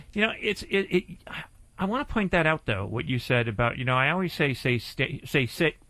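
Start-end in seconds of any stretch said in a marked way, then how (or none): 4.5-5.8 muffled behind a mask; talking through a mask; through a face mask. Real, not acted. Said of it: "It's so hard to talk with these masks on my face".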